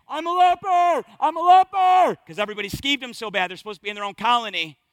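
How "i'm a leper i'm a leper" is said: high, loud warning cry of a leper; screaming. Acted. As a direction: cry it out to be heard miles away. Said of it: "They gotta start screaming".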